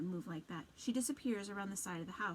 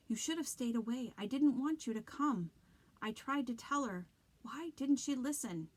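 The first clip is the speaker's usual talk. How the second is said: raised, anguished pleading; desperate outburst; 4 semitones higher, 5 dB louder than usual. Acted. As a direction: cry out in despair. Haunted boy's desperate outburst.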